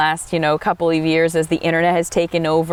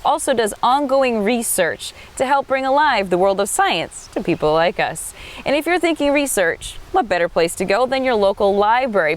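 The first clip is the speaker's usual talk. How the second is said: bright TV host intro, lilting higher; upbeat travel show host; 3 semitones higher than usual. Acted. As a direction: welcome viewers like a cheerful presenter.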